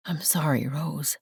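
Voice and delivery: lightly rasping and quiet; rasped. Acted. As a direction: let the apology scrape out softly. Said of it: "his voice rasped".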